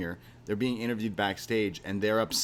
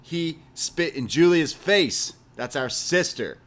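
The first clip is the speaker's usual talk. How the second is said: fired-up Griff; 4 dB louder than usual. Retold or imitated. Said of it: "And he's like".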